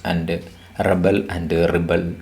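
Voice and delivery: "rebel and rebel", REB-el then ri-BEL; first "rebel" front-stressed, second end-stressed; noun then verb. Shown as a demonstration. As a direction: shift the stress between the two "rebel". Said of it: "we pronounced it as rebel".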